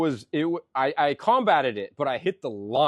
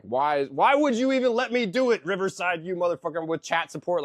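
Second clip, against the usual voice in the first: higher, louder angry rant at the software; pissed-off rant; 5 semitones higher, 4 dB louder than usual. Retold or imitated. Venting at the editing app in a retold rage: mock furious. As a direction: yell at the app like it betrayed you. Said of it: "I'm all pissed".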